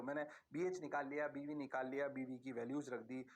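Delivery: student voice. Pretend. Students' working voiced by teacher.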